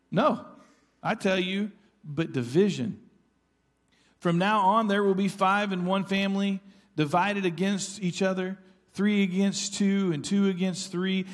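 lightly voiced Jesus, earnest proclamation; quoting Jesus. Pastor voicing Jesus' warning to his church, solemn and earnest. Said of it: "Jesus says".

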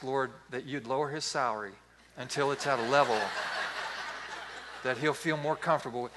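mildly solemn mock-pastoral petition; mock prayer. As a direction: pray it evenly, straight-faced. Acts out mock prayer for son.

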